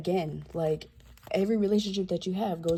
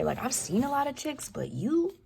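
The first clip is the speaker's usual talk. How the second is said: Christian Grey; 6 semitones higher than usual. Retold or imitated. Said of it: "almost like Christian Grey".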